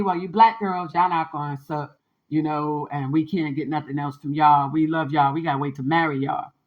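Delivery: a hint of smug boys talking down to girls; imitating guys. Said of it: "that was the attitude".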